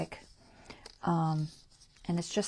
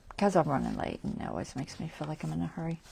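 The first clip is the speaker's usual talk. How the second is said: rushed, casual explanation; hurried, quick-paced chat; talking fast; faster than usual. Real, not acted. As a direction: rattle it off as if running late. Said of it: "I'm talking fast today".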